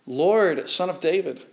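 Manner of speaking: understated mother's cry for help; mild pleading cry. Retold or imitated. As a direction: beg for your daughter, lightly voiced. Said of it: "a Canaanite woman cries similarly".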